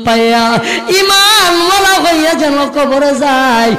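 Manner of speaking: melodic sermon chant swelling into high cries; impassioned waz preaching. Acted. Nephew refusing his uncle's offers, in impassioned preaching chant. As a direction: preach it as a pleading chant with stretched endings.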